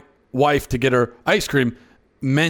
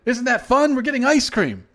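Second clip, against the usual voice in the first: imitating little daughter; 9 semitones higher than usual. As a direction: squeak it out like an eager three-year-old girl. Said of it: "She came in and she said".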